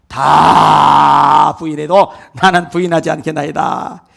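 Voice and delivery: slow, proud boasting vow; boastful vow. Retold or imitated. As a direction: puff up and swear it grandly. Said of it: "이렇게 큰 소리 치면 안 돼요".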